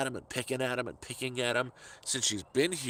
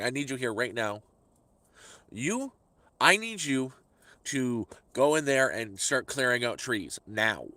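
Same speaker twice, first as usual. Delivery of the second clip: bossy order. Retold or imitated. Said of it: "She's ordering me".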